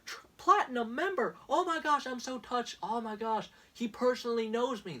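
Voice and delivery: high, gushing starstruck voice; mock-swooning Trump supporter; mock gullible fan. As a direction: play the fool who believes it. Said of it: "are there some people on the planet who actually fall for this stuff".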